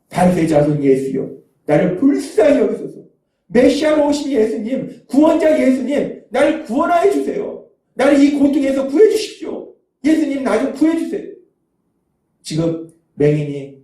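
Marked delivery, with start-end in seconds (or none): 0.1-11.3 acted plea for rescue, pitch climbing after the first words; crying out. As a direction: call out imploringly as a blind beggar, without shouting. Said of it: "맹인이 소리칩니다".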